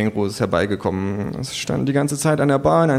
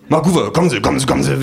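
agent voice; 4 semitones higher, 4 dB louder, faster than usual. Acted. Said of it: "winkt mich mein Agent heran".

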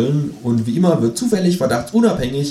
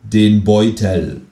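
slow insistent repeat; much slower than usual. Acted. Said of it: "wiederholt der Mann".

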